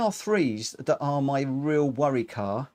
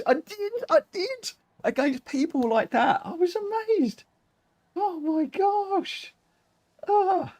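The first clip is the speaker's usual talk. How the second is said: much higher, thrilled and amazed; excited squeal. Real, not acted. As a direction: squeal with delight at winning. Thrilled reply to winning question.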